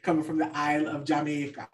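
badly faked, light Jamaican accent; terrible Jamaican accent. Shown as a demonstration. Podcaster correcting a co-host on the song's origin, bad Jamaican accent. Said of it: "that was a terrible accent".

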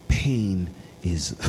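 Alex impression. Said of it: "impression of Alex".

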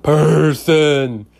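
one word, weighty and final; stressed person. Shown as a demonstration. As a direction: land hard on "Person".

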